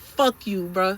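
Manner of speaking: loud angry curse. Retold or imitated. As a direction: curse him out. Cursing at trainer.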